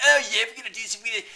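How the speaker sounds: high, loud mock-British boasting; hammed-up Brit bluster; British impression. Mocking the British promising a landing, loud British impression. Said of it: "The stupid British".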